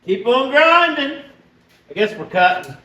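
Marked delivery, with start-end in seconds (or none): 0.0-1.2 high, drawn-out slogan; catchphrase. Acted. Shop catchphrase to the viewers, high and stretched out. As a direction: call out the slogan high and slow.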